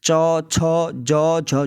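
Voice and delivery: चौ, छ, ज, झ, अंगो, tongue on the palate, said one by one; reciting palatal letters. Shown as a demonstration. Teacher demonstrating palatal letters. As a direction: sound each letter off the palate. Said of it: "जीभ... ऊपर तालू से लगती है".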